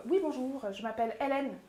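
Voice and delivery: name set apart with pauses on "Hélène", "Roubillet", "Yarn"; slow, deliberate introduction. Shown as a demonstration. Coach introducing herself at a pitch, slow and deliberate. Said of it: "vous allez aller tellement lentement".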